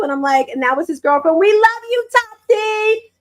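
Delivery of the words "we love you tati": high, drawn-out call; affectionate shout-out. Real, not acted. Host greeting a son's girlfriend, high excited shout-out.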